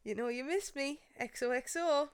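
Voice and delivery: a hint of the Gossip Girl narrator. Host quoting the show's narrator to listeners, softly. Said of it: "Gossip Girl".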